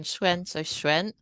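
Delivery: "Xuan" with a rising second tone. Shown as a demonstration. Teacher showing a second tone to learner, "Xuan" rising. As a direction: lift the pitch through "Xuan". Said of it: "it's second tone".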